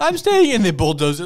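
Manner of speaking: loud, high mock crying, wailing.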